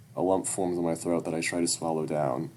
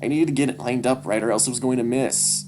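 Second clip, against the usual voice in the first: put-on pleading boy's voice; 6 semitones higher, 6 dB louder than usual. Son defending himself to dad.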